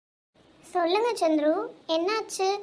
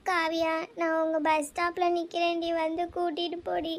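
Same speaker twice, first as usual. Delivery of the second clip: subdued, tearful request fading softer at the end; tearful plea; 3 dB quieter than usual. Acted. Friend phones from bus stop to be fetched, tearful plea. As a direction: plead quietly through tears. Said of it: "ஏன்டி அழுகுற?".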